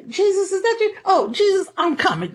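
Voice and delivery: high, eager calling out to Jesus; excited Peter. Retold or imitated. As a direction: call out like Peter seeing Jesus. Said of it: "he's like".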